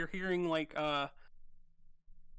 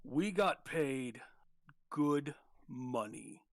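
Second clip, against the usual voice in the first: gruff guard voice. Acted. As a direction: growl it like a bored thug. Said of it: "another gruffer voice".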